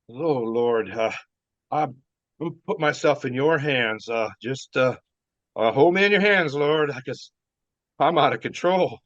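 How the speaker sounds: understated plea to the Lord; retold prayer. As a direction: appeal to heaven, lightly acted. Acts out drunken plea to God.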